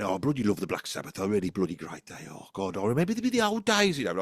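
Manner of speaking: a hint of a Brummie rocker reminiscing; Brummy accent. Alter ego Brummy Dave reminiscing to fans, a light Brummie accent. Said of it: "Brummy Dave's coming on, and he's going".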